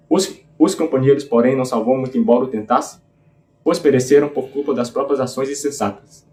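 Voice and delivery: epic verse read aloud in a steady beat; leitura rítmica de poema épico. Acted. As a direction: recite the lines with a marching metrical pulse. (leitura cadenciada de versos épicos)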